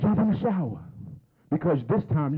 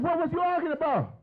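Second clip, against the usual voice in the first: mock big brother; 13 semitones higher than usual. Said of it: "Keith said".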